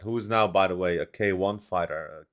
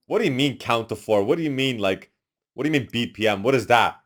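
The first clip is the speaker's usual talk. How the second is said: rising, louder disbelief at jargon; what are you even saying, getting louder; baffled outburst; 6 dB louder than usual. Retold or imitated. Baffled at studio jargon, rising disbelief.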